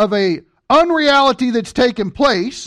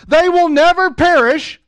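emphatic quote; 6 semitones higher, 4 dB louder than usual. Acted. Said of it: "And it says this".

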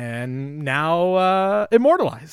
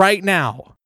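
a half-hearted angry yell, a bit louder; mock scream; 3 semitones higher, 6 dB louder than usual. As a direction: rant like an armed protester, hammed-up.

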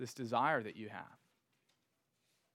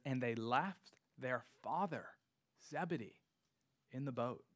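"father" set apart and stressed, with pauses round it; emphasis on father; 5 dB quieter than usual. Real, not acted. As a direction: read it in pieces, leaning on "father". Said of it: "here the emphasis isn't that they left their nets".

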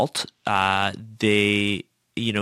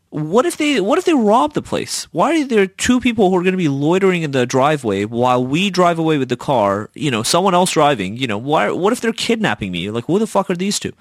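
higher-pitched worried inner voice; mock alarm; 5 semitones higher than usual. Seller fearing robbery or kidnapping by buyers, retold alarm. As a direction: fire off anxious what-ifs, lightly hammed up. Acted anxious thoughts before test drive.

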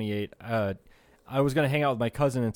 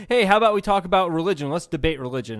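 mock old guy; 5 semitones higher, 8 dB louder than usual. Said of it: "this old guy says something like".

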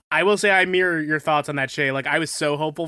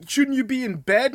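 mocking yell; 9 semitones higher, 3 dB louder than usual.

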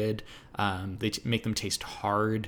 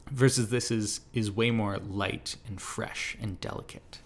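voice giving out. Real, not acted. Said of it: "Sorry, my voice is giving out on me".

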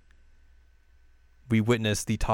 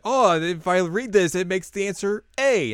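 acted quote; 7 semitones higher than usual.

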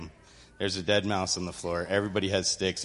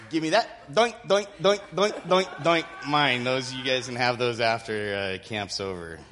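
playful confiscating; 4 semitones higher, 3 dB louder than usual. Retold or imitated. Counselor grabbing knives, playful.

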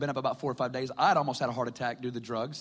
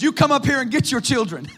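preacher's call; 9 semitones higher, 7 dB louder than usual. Retold or imitated. Conference preacher calling mother forward.

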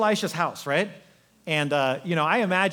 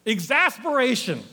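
exasperated; 4 semitones higher than usual. Acted. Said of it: "as a sign of just exasperation".

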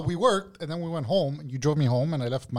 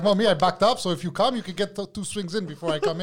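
quoting the cook while still laughing, higher; laughing quote; 4 semitones higher than usual. Real, not acted. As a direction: laugh your way through his words.

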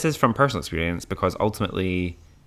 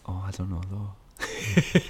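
hesitant doubt; 5 dB quieter, slower than usual. Retold or imitated. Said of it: "I'm like".

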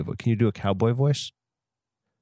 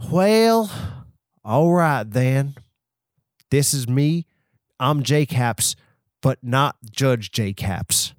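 slow, drawn-out cowboy drawl; slower than usual. Acted. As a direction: put on a cowboy voice, stretching the words. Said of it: "You have to do a cowboy voice".

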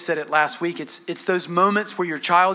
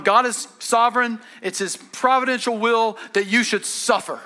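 flippant; 4 semitones higher than usual. Acted. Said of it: "he's not just flippantly going".

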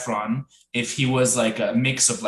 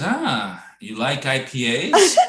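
imitating a stranger's odd tone; lightly put-on stranger's come-on, rising at the end; imitated odd tone; slower than usual. Stranger approaching in the beer aisle, imitated odd tone. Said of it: "What's with the tone?".

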